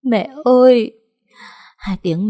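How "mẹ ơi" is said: high, loud sobbing cry; crying out for mother. A narrator's reading. Daughter sobbing at her unconscious mother's bedside, anguished cry. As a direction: cry out through sobs. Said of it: "vừa khóc vừa nấc lên".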